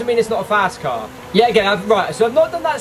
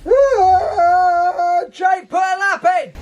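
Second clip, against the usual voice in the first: high, loud yell at yourself; real frustration after another crash; self-scolding shout; 9 semitones higher, 3 dB louder, much slower than usual. Real, not acted. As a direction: bark at yourself to get it together. Crashed again, scolds himself.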